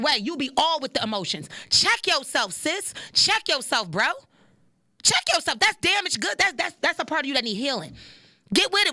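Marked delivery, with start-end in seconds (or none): 1.7-8.9 firm call-out. Real, not acted. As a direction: tell them to check themselves. Scolding the audience.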